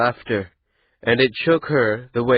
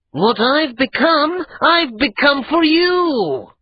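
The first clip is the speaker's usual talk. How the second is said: slow, high and louder; intense declaration; 6 dB louder, slower than usual. A narrator's reading. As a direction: drive each word home. Adra's emphatic declaration.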